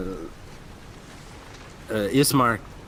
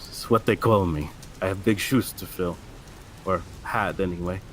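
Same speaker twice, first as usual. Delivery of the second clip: sadly. Acted. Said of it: "He says sadly".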